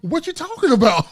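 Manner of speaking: high, loud mock-aggressive challenge; retold aggression. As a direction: fire back heated, imitating an argument. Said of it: "Man, you real aggressive".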